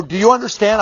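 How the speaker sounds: firm but not yelling. Retold or imitated. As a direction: put the question firmly without shouting. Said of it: "but I was very firm".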